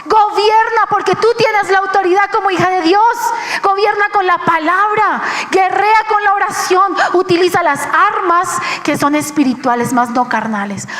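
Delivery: high ringing call to arms; urgent divine command. Retold or imitated. Preacher voices the Lord calling her to fight, high and forceful. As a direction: proclaim like a battle order. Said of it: "me decía el Señor".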